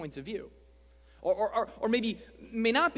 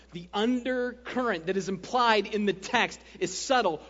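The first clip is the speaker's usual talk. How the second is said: slow, louder mock preacher voice as the enemy; Satan's sermon; 3 semitones higher, 7 dB louder, slower than usual. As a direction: preach it like a slick tempter. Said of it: "the enemy comes in with his favorite sermon".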